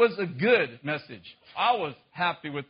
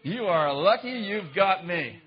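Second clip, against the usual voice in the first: smug boast; 4 dB louder, slower than usual. Retold or imitated. Smug boast to God, slowed.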